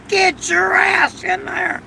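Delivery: high, slow mock yell; neighbor yelling. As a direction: holler like the angry neighbor. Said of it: "My neighbor was screaming".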